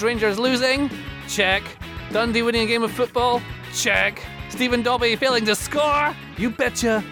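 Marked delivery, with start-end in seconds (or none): none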